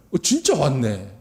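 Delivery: rude, high-pitched, mocking sneer.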